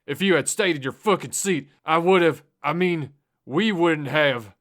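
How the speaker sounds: high, loud furious yell. Acted. Driver yelling at the girl, blaming her, furious. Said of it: "Tommy yelled at Jesse".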